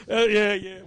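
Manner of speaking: yeah said through a laugh. Real, not acted. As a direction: chuckle through the words. Laughing after his rant.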